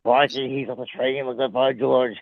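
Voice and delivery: lightly Australian wildlife narration; a touch of mock Australian presenter; Steve Irwin. Watching George on the train, lightly Australian commentary. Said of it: "Oh, you mean Steve".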